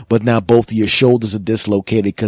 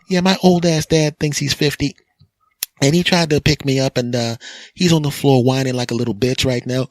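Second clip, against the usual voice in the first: grown daughter; 5 semitones higher than usual. Acted. Daughter calling 911 about dad.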